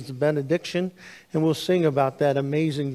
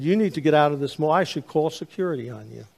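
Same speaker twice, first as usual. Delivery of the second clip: imitating angry man; 4 dB louder, faster than usual. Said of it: "he was very angry".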